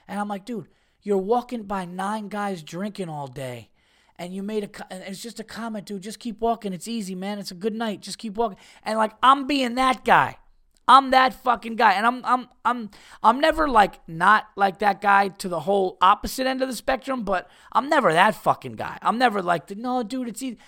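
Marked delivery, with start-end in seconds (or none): 0.4-8.6 voice of reason. Retold or imitated. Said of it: "I'm being this fucking voice of reason". 19.7-20.6 voice of reason. Retold or imitated. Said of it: "voice of reason".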